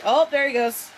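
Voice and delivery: high, loud exclamation; playful high lilt; delighted pet talk. Real, not acted. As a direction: exclaim over the pet's antics. Exclaiming over pet's antics.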